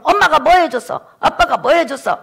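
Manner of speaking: acted-out child talking back; defiant whining complaint. Child complaining to mom and dad, defiant. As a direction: throw short mock accusations at your parents. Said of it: "불평하고 대들죠".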